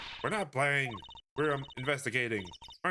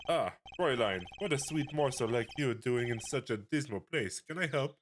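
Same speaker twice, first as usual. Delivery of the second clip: put-on French accent. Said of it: "did I just give him a French accent?".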